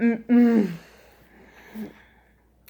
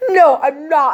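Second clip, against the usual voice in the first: laughing through tears; 2 semitones higher than usual. Retold or imitated. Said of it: "I literally start crying".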